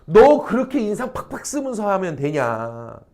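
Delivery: mock scolding, slow and drawn out; scolding mother. Mother to a scowling child, slow mock scolding. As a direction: lightly act a mother pressing her child. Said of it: "막 애를 막 다그치는 거야".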